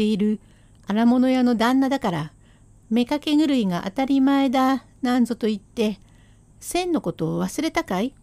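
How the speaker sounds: wife raising her voice. Acted. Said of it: "そんな大きな声で言わなくてもいいじゃねえか".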